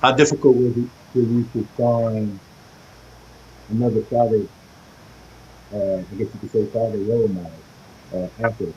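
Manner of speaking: muffled, as if through a wall. Real, not acted. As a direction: voice muffled by a covered mic. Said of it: "you're muffled again".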